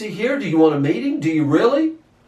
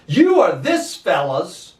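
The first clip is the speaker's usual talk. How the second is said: scornful, slow. Retold or imitated. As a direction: say "You are this fellow's" slowly, with contempt, the "fellow's" sneered. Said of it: "We're not even gonna say his name".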